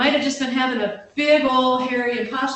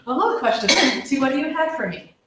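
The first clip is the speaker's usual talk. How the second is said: reluctant, silly greeting; 4 semitones higher than usual. Retold or imitated. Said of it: "This is so silly".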